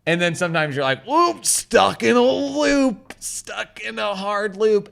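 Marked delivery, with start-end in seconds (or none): 1.1-4.9 high, slow, dreamy sing-song; slow high looping singsong; dazed sing-song. Retold or imitated. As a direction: drift like a mind caught in a loop. Acting out a looping trip.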